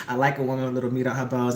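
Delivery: a hint of a smooth neighbour. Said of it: "zoomed in on his mouth".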